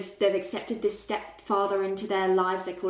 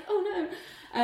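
mock dismay; 10 semitones higher, 4 dB quieter than usual. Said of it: "It's like".

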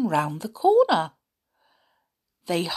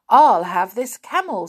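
eager choice; 7 dB louder than usual. Acted. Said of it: "said Peter".

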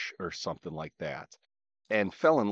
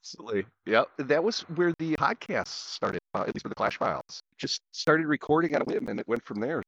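crackly connection; 6 semitones higher than usual. Real, not acted. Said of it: "You're super crackly".

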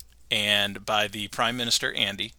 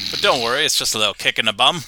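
quoted line, a bit louder; 5 dB louder, faster than usual. Retold or imitated. Quoting the show's line.

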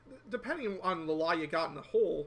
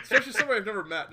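laughing; 4 semitones higher, 7 dB louder, much faster than usual. Real, not acted. Laughing at the story.

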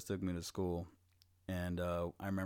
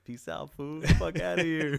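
high, louder brush-off; carefree grandma; 8 semitones higher, 8 dB louder than usual. Retold or imitated. Grandma dropping him at kindergarten, high and carefree. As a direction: wave him off cheerfully and loud. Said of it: "My grandma was just like".

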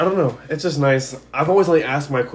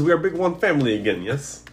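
put-on Russian accent; 2 semitones higher than usual. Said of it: "Someone else do a Russian accent".

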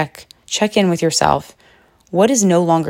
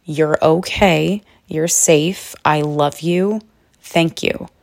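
loving words; slower than usual. Shown as a demonstration. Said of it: "send so much love and just say".

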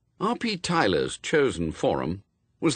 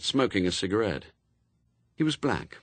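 plain reading voice

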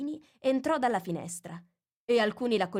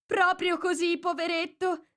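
sympathetic others; 11 semitones higher, 4 dB louder than usual. Acted. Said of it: "dissero gli altri".

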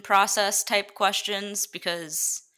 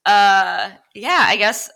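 laughing; 5 semitones higher, 9 dB louder than usual. Real, not acted. Flustered laughing at question.

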